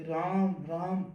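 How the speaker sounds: slow, drawn-out calling of the name; woman's ghostly call. Retold or imitated. Retelling the ghost woman calling his name, slow and soft. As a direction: mimic a woman calling softly in the night. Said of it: "औरत की आवाज आ रही थी".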